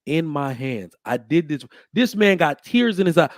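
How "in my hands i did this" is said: slow, hushed offering of a newborn; a hint of a tender mother; tender presenting. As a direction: hand the child over gently. Mother presenting baby to father.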